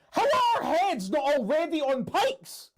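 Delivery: high, loud, slow disbelieving cry; panicked shout. Acted. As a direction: wail at the thought of pikes. Panicking about danger.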